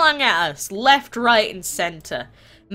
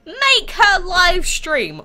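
high, slow, drawn-out mock demand; mock spamming fans; 9 semitones higher, 4 dB louder, much slower than usual. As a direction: imitate a group of friends chanting a demand. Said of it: "all friends and they go".

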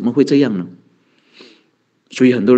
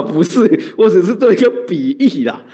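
higher, chuckling clarification; laughing disclaimer; 4 semitones higher than usual. Real, not acted. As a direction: laugh it off while explaining yourself. 笑着澄清不是鼓励看小说. (笑着解释)

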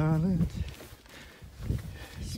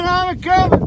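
high, louder calling out; 7 dB louder than usual. Real, not acted. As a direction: shout it up to them. Calls out louder.

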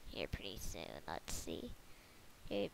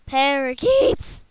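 parakeet chatter; 10 dB louder, slower than usual. Pretend. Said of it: "That's my parakeet voice".

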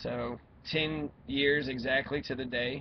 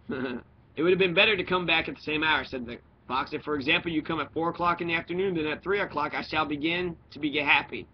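story narration; 3 semitones higher, 5 dB louder, faster than usual. A narrator's reading. Reader telling of the fox meeting the little prince, animated storytelling. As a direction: read a storybook with animated character lines.

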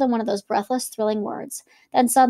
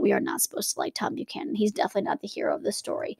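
whispered aside; 6 dB quieter than usual. Real, not acted.

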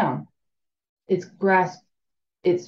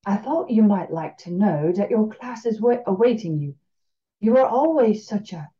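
Cajun drawl; 3 semitones higher than usual. Acted. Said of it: "Her voice had a slow drawl".

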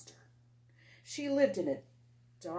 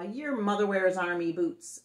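snarled; 6 dB louder than usual. Acted. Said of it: "snarled the biggest boy".

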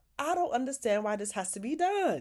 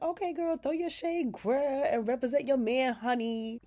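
high, sassy hype-friend voice; sassy cheering; 5 semitones higher than usual. Retold or imitated. Recapper hyping Andy's shade at Gary, high sassy cheer. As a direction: cheer her on with sass, pitch up. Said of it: "And I'm like".

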